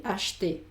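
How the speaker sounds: "acheté" with the force on the last E; stress on final E. Shown as a demonstration. Teacher showing how to pronounce it, final E of "acheté" stressed. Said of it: "la fuerza está en la E".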